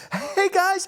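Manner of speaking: very high put-on host voice; media voice. Shown as a demonstration. Coach's media voice demo, very high and fake. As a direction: jump way up into a fake on-camera voice. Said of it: "three octaves higher than your normal voice".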